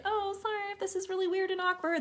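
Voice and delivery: apologetic high self-quote. Retold or imitated. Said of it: "by telling people, like".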